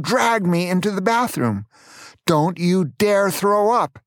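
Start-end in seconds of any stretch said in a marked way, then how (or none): 2.3-4.0 slow, higher, stern mother's warning; mild mock yell, each word spelled out. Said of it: "she yelled".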